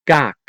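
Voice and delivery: Kaak with no puff on either K; unblown K. Shown as a demonstration. Teacher showing Dutch letters, Kaak with unblown Ks. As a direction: say Kaak in Dutch, both Ks cut short. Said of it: "without blowing those three letters".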